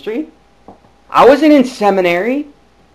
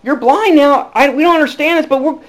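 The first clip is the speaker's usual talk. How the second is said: higher, louder, puzzled travellers; Saul's companions; 5 semitones higher, 3 dB louder than usual. Retold or imitated. Saul's companions on the road to Damascus, higher and baffled. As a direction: shrug along in confusion.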